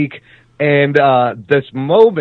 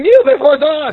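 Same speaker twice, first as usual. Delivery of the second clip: loud commanding villain shout, higher; dark lord; 11 semitones higher, 5 dB louder than usual. Retold or imitated. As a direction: bark the command like a tyrant.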